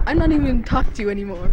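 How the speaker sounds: acted huff. Acted quarrel between friends.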